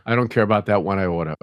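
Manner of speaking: mom's Southern accent, lightly imitated, "order" as "oh-duh". Son quoting his mother, light Southern accent. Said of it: "she would drop into a Southern accent".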